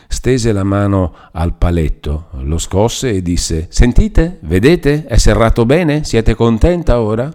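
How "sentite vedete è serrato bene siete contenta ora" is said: high, loud nagging crone; an old woman sneering and scolding at a frightened girl; bitter old hag voice, raised high and loud. A narrator's reading. Old woman shows the lock.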